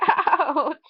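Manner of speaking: ouch through a laugh. Real, not acted. Kid laughing about his little accident, ouch through a laugh.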